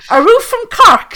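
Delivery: high, loud mock shout; retold shout. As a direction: imitate a girl calling out teasingly to a man. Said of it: "one of the girls shouted to the guy".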